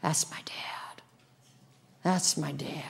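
whispered, hushed and proud; a whispered marvel at a father; awed whisper. Pretend. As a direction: breathe it in quiet wonder. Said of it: "you just go".

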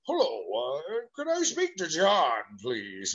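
a caller asking for John, pitch jumping up on the middle words; caller on the phone. Retold or imitated. Caller asks the boy for his father, lightly imitated. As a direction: lightly voice the polite stranger on the line. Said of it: "somebody says".

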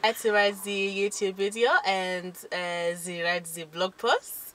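halting put-on French accent; mock French accent. Shown as a demonstration. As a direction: fumble along in a French accent. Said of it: "we haven't put down French".

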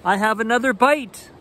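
high, eager shout of a bite; Papa Bear announcing another bite; excited call. Acted. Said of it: "called Papa".

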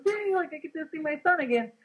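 lightly voiced gleeful mother; excited. The mother arriving in heaven to find her son, excited.

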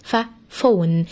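slow ف sound alone, then فون with a clear f. Shown as a demonstration. Teacher showing pupils the ph sound, slow and deliberate. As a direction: isolate the ف, then say فون slowly. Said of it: "عملوا لي صوت ال ف".

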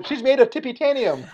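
high, fairly loud punchline; retold proud quip. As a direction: announce the made-up word with glee. Proud father delivers his punchline.

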